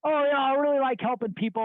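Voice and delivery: high, mock-earnest voice; mimicked excuse. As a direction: imitate someone cheerfully justifying himself.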